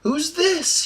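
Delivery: high, gasping surprise; gasped. Acted. Kinder gasps in surprise at the bearded half-elf. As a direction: gasp it out in wonder. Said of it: "he gasped".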